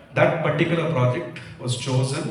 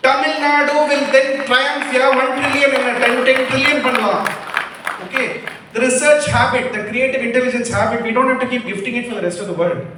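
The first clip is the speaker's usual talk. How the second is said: much higher and louder, a rallying shout; rousing cry; 10 semitones higher, 7 dB louder than usual. Real, not acted. Speaker rallies the crowd about Tamil Nadu's future, shouting. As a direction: proclaim it to the hall with full force.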